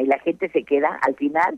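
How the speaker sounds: usual speaking voice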